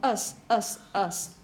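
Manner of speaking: "us" as a short schwa syllable; reduced, unrounded vowel in "us"; schwa suffix. Shown as a demonstration. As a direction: repeat "us" short and low, no U sound. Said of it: "should be that of schwa".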